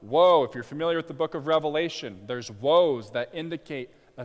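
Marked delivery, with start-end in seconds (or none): 0.0-0.4 loud outcry of Woe; crying out. Retold or imitated. Preacher voicing oppressed nations, loud crying out. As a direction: shout Woe out as a cry of doom. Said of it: "And they're crying out".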